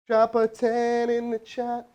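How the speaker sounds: slow, drawn-out southern drawl; a slow hammed-up southern twang; southern accent. Shown as a demonstration. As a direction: drag it out like a Texas cowboy. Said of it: "I'll do it without the accent this time".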